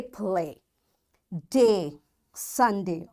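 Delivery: "play, Day, Sunday" slowly, each ending on a held long A; long A sound. Shown as a demonstration. Teacher gives example words for the A-Y rule, long A held. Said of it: "long vowel sound of A".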